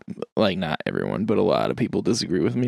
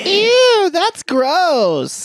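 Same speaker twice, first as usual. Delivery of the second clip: grossed out; 4 dB louder, much slower than usual. Real, not acted. Reacts to nickname.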